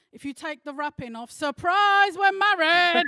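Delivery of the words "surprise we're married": mock surprise reveal. Punchline reveal.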